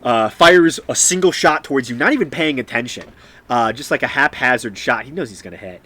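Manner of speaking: animated, punchy combat narration; game master's scene setting. Acted. Game master describing the shot to a player, animated narration. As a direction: narrate the action with emphatic force.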